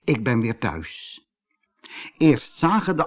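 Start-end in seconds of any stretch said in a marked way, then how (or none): 0.0-1.2 low, settling sigh; relieved sigh. Acted. Koosje is home again, low relieved sigh. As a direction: sigh it out as the pitch sinks. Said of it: "zuchtte hij".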